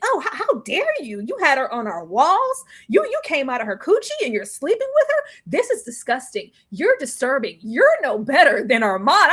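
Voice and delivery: mock disgust. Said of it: "vaults of hell of disgust".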